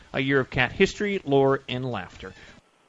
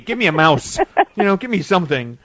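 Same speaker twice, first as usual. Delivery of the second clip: cat's pleading voice; 3 semitones higher, 6 dB louder than usual. Acted. Host voices the cat's plea.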